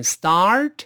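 start先张大嘴发“啊”再卷舌，末尾带t; 慢读start，“啊”拉开后勾舌; 先拉下颏再勾舌. Shown as a demonstration. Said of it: "先拉下颏啊，". (start元音张开、再卷舌、上扬)

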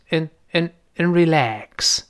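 "and" weakened to "in" before "relax"; reduced and. Shown as a demonstration. Teacher drills the linking sound, "and" reduced to "in". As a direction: say "and" as a small "in", then stretch "relax". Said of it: "这么一个声音啊".

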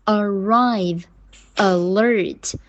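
a-RRIVE, a-LERT, endings punched; stress on second syllable. Shown as a demonstration. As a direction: say "arrive" and "alert" with a light A and strong last syllable. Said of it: "这个全都是重音在后面了".

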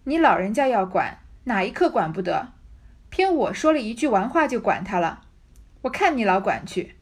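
put-on Ying'er sneering back at the stubborn old woman; cold sneer. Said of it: "冷笑道". (大声冷笑着顶嘴)

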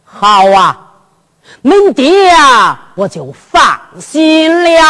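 slow, drawn-out relief; lightly voiced old man, reassured; relieved old father. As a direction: let each phrase stretch out contentedly. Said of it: "他就放心了".

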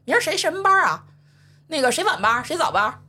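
high, breezy mock nonchalance; casual boss question. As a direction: play it like nothing ever happened. Boss acting as if nothing happened.

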